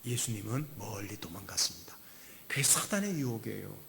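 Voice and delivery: soft hushed whisper. Real, not acted. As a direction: drop to a whisper. Sermon aside whispered. (조용히 속삭이며)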